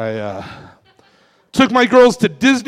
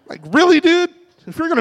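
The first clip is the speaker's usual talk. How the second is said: incredulous; 10 semitones higher than usual. Acted. Mocking the hard-staring guy.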